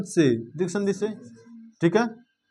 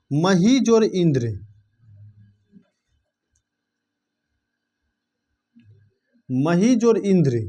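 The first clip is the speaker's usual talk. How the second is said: slow spelling out; slower than usual. Shown as a demonstration. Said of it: "teacher spelling out sandhi parts".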